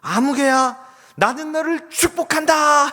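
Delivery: high, slow, full-volume call; acted blessing shout. Mother shows her son how to bless the bully, shouting. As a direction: holler the blessing across the mountains.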